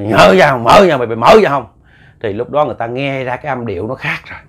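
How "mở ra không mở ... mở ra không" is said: loud, angry demand. Retold or imitated. Possessed man demanding they open the door, angry. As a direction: bark it like an enraged possessed man. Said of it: "Tức, nó nói".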